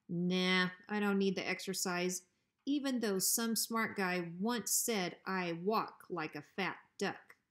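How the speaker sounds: a hint of sly menace; hint at what you want, coolly; lightly voiced bully dog. Bruiser slyly asking Hank for his porch. Bruiser refusing, reminding of insult.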